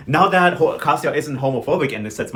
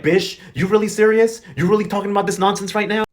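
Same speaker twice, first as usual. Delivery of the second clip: louder, quick mock telling-off; higher-pitched sassy reprimand, lightly acted; retold scolding; 4 semitones higher, 4 dB louder than usual. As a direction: imitate someone dragging her, incredulous. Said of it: "Marlene dragged her ass".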